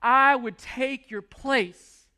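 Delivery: a hushed, half-broken plea, retold; retold weeping apology. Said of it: "weeping, saying".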